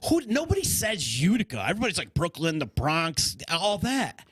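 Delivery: high-pitched, astonished protest; incredulous retelling. Retold or imitated. Traveler amazed a stranger guessed Utica, incredulous.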